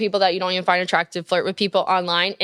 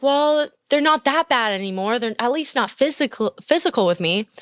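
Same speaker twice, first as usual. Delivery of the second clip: imitating the listener; 4 semitones higher than usual. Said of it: "I know that you're like".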